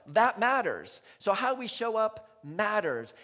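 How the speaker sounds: loud, ringing declaration, slowed; preaching at full force. Real, not acted. Preacher to the congregation, loud and emphatic. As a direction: drive home that it matters.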